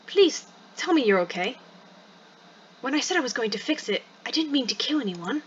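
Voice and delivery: gentle attempt at a pleading British voice; understated bitter British character voice; bitter British whisper. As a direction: plead in a put-on British accent. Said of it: "a voice whispering in bitter tones".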